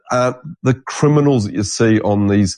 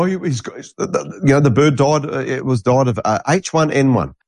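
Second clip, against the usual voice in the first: 1 mock official; 5 semitones higher than usual. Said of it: "and go".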